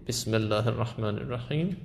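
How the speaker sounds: بسم الله الرحمن الرحیم opening on a short "bis"; short i vowel. Shown as a demonstration. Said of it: "ای کوتاه".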